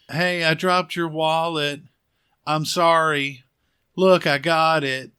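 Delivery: slow, drawn-out call to someone at a distance; imitated calling out. Vera calls to the man she thinks is Shelly, mock calling out.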